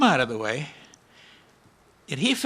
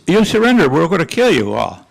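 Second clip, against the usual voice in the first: enemy soldier shouting a threat; threatening shout; 2 semitones higher, 11 dB louder than usual. Retold or imitated. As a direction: bark the threat across. Enemy threatens across the rocks.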